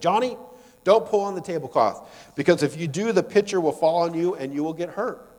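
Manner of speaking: mildly stern mom voice; motherly warning. Acted. Mother warning child in parable.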